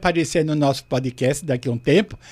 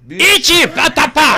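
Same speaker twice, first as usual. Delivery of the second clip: high, loud, drawn-out dubbed catchphrase; mock Japanese dubbing; 5 semitones higher, 4 dB louder, slower than usual. Guest imitates his Japanese dubber, mock high-voiced shout. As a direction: imitate a squeaky Japanese voice double. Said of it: "o cara fazendo a minha transação, japonês".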